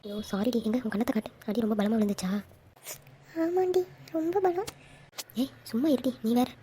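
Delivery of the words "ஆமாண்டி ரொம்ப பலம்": slow, higher-pitched complaint; drawn-out complaint. Acted. Friend answers whether the slap was hard, drawn-out complaint. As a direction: draw it out, pitched up, as if nursing the hurt.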